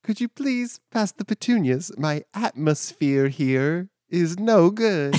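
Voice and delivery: slow, odd attempt at British accent; Martian-sounding. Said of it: "You sound like a Martian".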